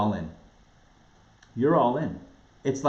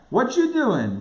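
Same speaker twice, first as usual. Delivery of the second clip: put-on New York accent; 9 semitones higher, 4 dB louder, slower than usual. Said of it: "God says".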